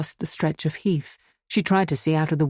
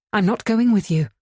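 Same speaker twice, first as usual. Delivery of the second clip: quick, higher, louder refusal; swift refusal; 6 semitones higher, 5 dB louder than usual. A narrator's reading. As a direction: snap back at the constable. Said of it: "she said swiftly".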